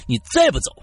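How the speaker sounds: threatening scolding. Acted. Old man threatens possessed manager.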